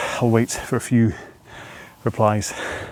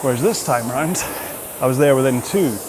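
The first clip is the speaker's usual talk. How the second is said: higher voice, phrases broken by effort; talking while rowing; 5 semitones higher than usual. Real, not acted. Rower explains the interval mid-effort, talking through exertion. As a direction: push short phrases out between rowing strokes.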